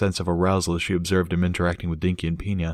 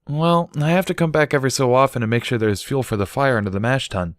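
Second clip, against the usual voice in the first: slightly higher, matter-of-fact; lightly voiced Barry; 6 semitones higher than usual. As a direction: explain the chore plainly. Barry explains the brewery fire.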